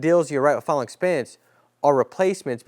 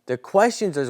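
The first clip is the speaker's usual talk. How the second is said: ordinary delivery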